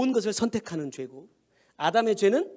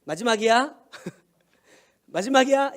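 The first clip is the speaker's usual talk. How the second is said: warning parent; 5 dB louder than usual. Retold or imitated. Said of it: "이렇게 딱 얘기하고 나면 분위기가 이제 딱 달라져".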